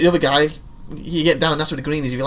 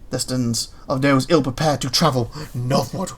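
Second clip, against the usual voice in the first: dramatic narration. Acted. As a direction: read it like an epic trailer. Reads game intro dramatically.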